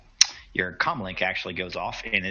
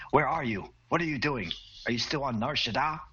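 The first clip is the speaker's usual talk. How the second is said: attempted Brazilian accent; 5 semitones higher than usual. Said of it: "I don't know how to do a Brazilian accent".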